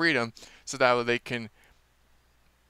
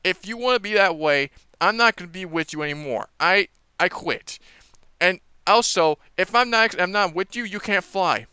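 huffy Hiccup; 5 semitones higher, 4 dB louder than usual. Retold or imitated. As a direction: storm off in a sulk. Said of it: "Hiccup's like".

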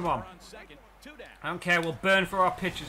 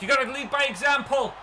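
much higher, louder yelling at the runner; excited cheering; 8 semitones higher, 7 dB louder than usual. Real, not acted. Gamer cheering his runner round for a home run, wildly excited. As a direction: scream him round the bases. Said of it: "I just got too excited".

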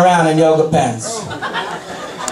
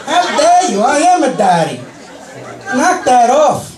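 hammed-up offended protest; to a woman who called him daddy, mock indignant; mock indignation; 5 semitones higher than usual. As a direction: play scandalized, half-joking. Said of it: "I said".

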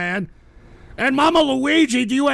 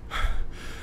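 soft, airy exhale; frustrated sigh; 8 dB quieter than usual. Real, not acted. Exasperated with chat.

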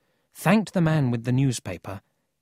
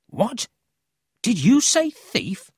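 high, drawn-out, louder question; astonished; 12 semitones higher, 5 dB louder, slower than usual. A narrator's reading. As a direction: react in amazement, stretching it out. Paul astonished to hear of thief.

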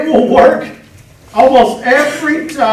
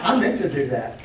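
Pee Wee Herman; 8 semitones lower, 6 dB quieter than usual. Retold or imitated. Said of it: "Pee Wee Herman".

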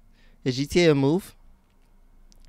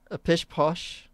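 slow, higher mock British accent; 4 semitones higher, much slower than usual. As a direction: draw it out like a fussy mock Brit. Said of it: "what is a modern British accent".

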